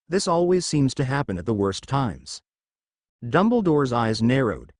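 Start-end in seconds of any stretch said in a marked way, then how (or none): 0.1-2.4 put-on light British ghost accent; a hint of British accent. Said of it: "changing to a British accent".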